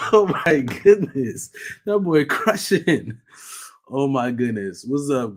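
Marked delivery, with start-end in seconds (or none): 0.1-3.2 drawn-out, loud awed exclamation; amazed. Real, not acted. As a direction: stretch it out in real awe. Amazed at the boy's gaming.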